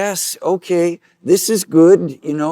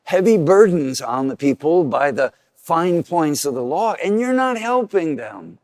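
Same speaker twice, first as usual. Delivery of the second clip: Jesus rebuking; 2 semitones higher, 4 dB louder than usual. Retold or imitated. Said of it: "Jesus turns his anger at the lawyers and says".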